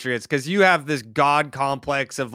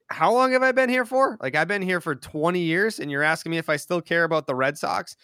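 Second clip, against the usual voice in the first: incredulous owner; 3 semitones higher than usual. Retold or imitated. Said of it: "I took it as".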